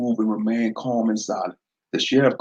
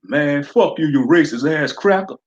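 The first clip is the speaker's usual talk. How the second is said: angry shout; 5 semitones higher, 4 dB louder than usual. Acted. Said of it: "Pookie shouted at the sheriff".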